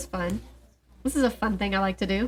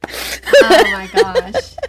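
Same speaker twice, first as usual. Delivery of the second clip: laughing; 12 semitones higher, 7 dB louder, much slower than usual. Real, not acted. Laughing at the funny story.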